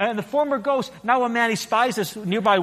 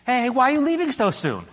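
angel calling out; 8 semitones higher, 3 dB louder than usual. A narrator's reading. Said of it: "the angel calls out to him".

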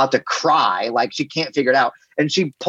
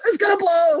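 mock alarm. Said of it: "I'm like".

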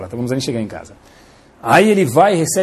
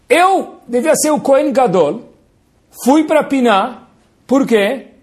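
jealous Caim; 7 semitones higher, slower than usual. Acted. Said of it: "Aí Caim fala".

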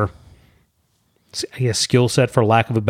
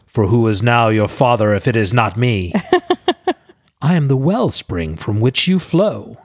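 megalomaniac rant. Retold or imitated. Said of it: "he gets to indulge in a major villain monologue".

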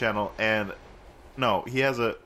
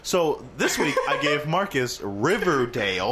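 announcer reveal; slower than usual. Acted. Dramatic announcing of the pick.

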